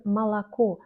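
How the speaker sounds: "malako" with first two vowels as a, final o stressed; reduced O. Shown as a demonstration. Teacher giving an example of the O rule, reduced O. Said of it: "on prononce comme A".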